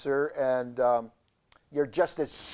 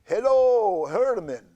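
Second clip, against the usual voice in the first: louder, lightly spooky hello; talking cancer voice; 6 semitones higher, 7 dB louder than usual. Acted. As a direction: call out as the cancer. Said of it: "hang on".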